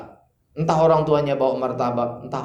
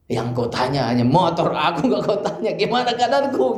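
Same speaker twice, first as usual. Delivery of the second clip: husband's complaint. Retold or imitated.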